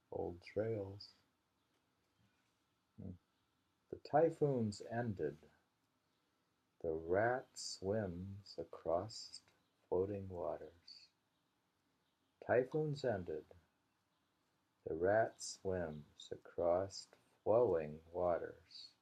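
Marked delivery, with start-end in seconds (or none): 3.9-11.1 slow haiku reading; poem recital. Acted. Reading the typhoon haiku to a friend, slow recital. 12.5-18.9 slow, deliberate haiku reading; poem recital. Acted. Repeating the typhoon haiku for a friend, slow recital.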